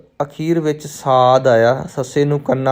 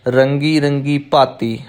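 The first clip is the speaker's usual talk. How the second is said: ਰੰਗੀ ਰੰਗੀ ਭਾਤੀ as one three-word group; slower than usual. Shown as a demonstration. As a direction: run ਰੰਗੀ ਰੰਗੀ ਭਾਤੀ together, then stop. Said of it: "ਤਿੰਨਾਂ ਤਿੰਨਾਂ ਦਾ ਜੋੜਾ ਬਣਾ ਕੇ". (ਰੰਗੀ ਰੰਗੀ ਭਾਤੀ ਤਿੰਨ ਸ਼ਬਦਾਂ ਦਾ ਇੱਕ ਜੋੜਾ)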